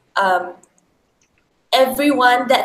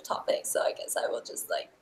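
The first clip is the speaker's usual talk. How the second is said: whispering; 14 dB quieter than usual. Pretend. Joking she'll sit the topic out.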